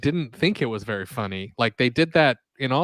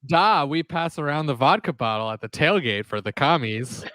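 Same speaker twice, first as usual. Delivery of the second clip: put-on laughing through a Russian accent; jokey Russian accent. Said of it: "And in a Russian accent".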